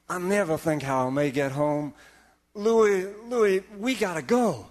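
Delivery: lightly voiced Jamaican sailor; Jamaican dialect. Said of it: "talking in a Jamaican dialect".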